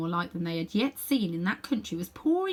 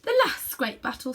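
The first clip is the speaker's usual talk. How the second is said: grim queen; 5 semitones higher than usual. Acted. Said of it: "said the Queen".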